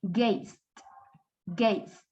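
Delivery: low one-syllable "Gazed"; D-only ending. Shown as a demonstration. Teacher models D not I, no extra syllable. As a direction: run Z straight into D in "Gazed". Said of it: "D, la D, no la I".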